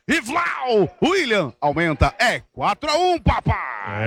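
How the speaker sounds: excited goal celebration. Real, not acted.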